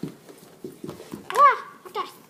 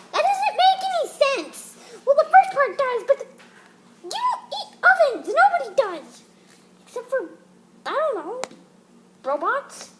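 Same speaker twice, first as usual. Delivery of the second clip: louder, higher exasperated rebuttal; 3 semitones higher, 6 dB louder than usual. Acted. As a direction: push back in disbelief. Exasperated dog retort.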